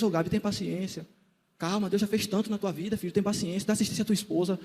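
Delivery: soft, gentle pastoral advice; calm him down softly; gentle counsel. Retold or imitated. Pastor softly counseling Gabriel to be patient, gentle. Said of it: "com sabedoria pra não me apertar".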